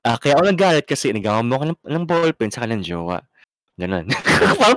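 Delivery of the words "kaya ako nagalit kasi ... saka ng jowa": fast, even, plain-pitched retelling; calmer version. Shown as a demonstration. Friend redoes the complaint the calmer way, quick and level. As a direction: say it straight through without heat. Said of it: "Oh, parang ganito".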